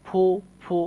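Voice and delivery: "ফু" sounded out alone, ending on oo. Shown as a demonstration. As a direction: isolate "ফু" with a rounded oo. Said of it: "যখনই ফু বলছি তখনই কিন্তু উ সাউন্ড".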